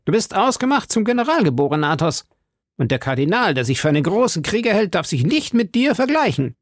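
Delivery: high, fast, gushing praise; exclaiming. A narrator's reading. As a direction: gush admiringly in a high musketeer voice. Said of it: "rief Porthos". (hoch, schnell und begeistert ausgerufen)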